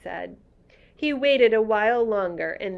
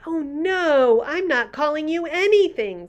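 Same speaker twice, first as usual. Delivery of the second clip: higher, louder eager protest; girl begging the offended giant not to stop; cried out; 9 semitones higher, 7 dB louder than usual. Acted. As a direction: rush to reassure him. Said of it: "Sophie cried".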